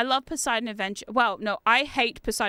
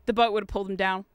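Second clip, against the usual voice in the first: deadpan; 4 semitones lower, faster than usual. Retold or imitated. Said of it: "Deadpan face".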